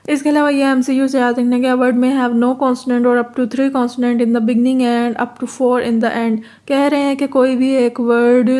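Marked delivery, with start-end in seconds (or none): 1.7-6.4 very slow, careful reading of the English text; reading the textbook aloud. Shown as a demonstration. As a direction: spell the definition out word by word for students. Reads the English rule. (अंग्रेज़ी परिभाषा को बहुत धीरे-धीरे पढ़ना)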